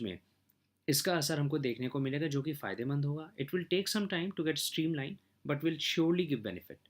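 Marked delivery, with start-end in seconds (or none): 3.4-6.8 slow formal reading. Acted. Reads English conclusion slowly.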